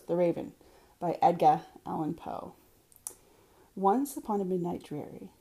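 poem read in an unaffected Boston accent; measured verse reading with native Boston vowels. Shown as a demonstration. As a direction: drop the r's, hometown Boston recitation. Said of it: "in a Boston accent".

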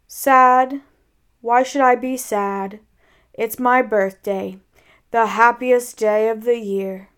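lightly voiced donkey, loud first word, then drawn out; gloomy donkey. Eeyore telling Pooh it's his birthday, mildly gloomy. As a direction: deny the sadness in a heavy drone. Eeyore denies being sad.

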